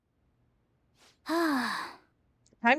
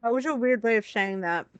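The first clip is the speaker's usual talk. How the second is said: talking while chewing a bite; mouth full. Real, not acted. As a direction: speak through a mouthful of food. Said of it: "I'm talking with my mouth full".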